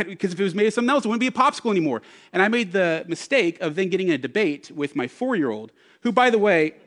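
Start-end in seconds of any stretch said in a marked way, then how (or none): 0.0-2.0 exasperated dad. Retold or imitated.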